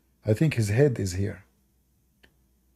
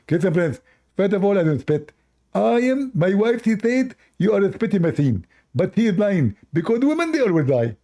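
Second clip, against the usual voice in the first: much higher, squeaky indignant retort; mock Abdul voice; 7 semitones higher than usual. Abdul answers his Christian friend about spitting, high indignant squeak. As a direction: protest your innocence in falsetto. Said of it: "speak like a Christian friend".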